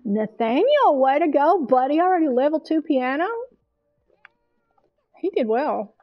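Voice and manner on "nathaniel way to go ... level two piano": cheering. Real, not acted. Cheering the Sim's piano progress.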